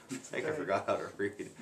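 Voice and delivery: soft, self-mocking words through a laugh; real amused laughing. Real, not acted. Reader stumbles over the story text, laughing softly. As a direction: laugh quietly at your own slip.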